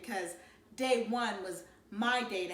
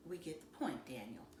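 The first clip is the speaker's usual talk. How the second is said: dry cut-off; 7 semitones lower, 11 dB quieter than usual. Acted. Mama cutting Dad off.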